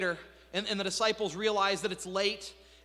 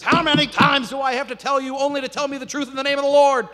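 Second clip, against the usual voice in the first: furious loud shout, higher; angry king; 8 semitones higher, 12 dB louder than usual. Retold or imitated. Ahab flips the lid, shouting at Micaiah. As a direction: blow up at him. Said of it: "Ahab flips the lid".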